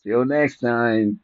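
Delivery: slow, lightly voiced stoned host signing off; imitating a stoned streamer. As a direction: drag out the goodbye like you're high. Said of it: "you be like".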